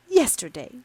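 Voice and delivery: high, loud tearful cry of the word Yesterday; a young woman sobbing out Yesterday to her sister-in-law. Acted. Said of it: "sobbed Isabella".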